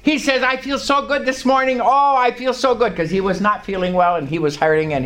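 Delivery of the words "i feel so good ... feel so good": raised-pitch imitation of an elated brother; excited. Preacher voices his brother calling in the morning, excited. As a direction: gush about feeling great, retold. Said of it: "He's all excited".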